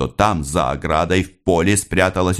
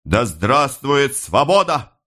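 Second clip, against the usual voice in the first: a slow slogan pitched higher; rallying shout; 8 semitones higher, slower than usual. A narrator's reading. Orator surrounded by police cries out, slow high slogan. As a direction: cry out freedom to the crowd. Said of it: "кричал, взмахнув рукой".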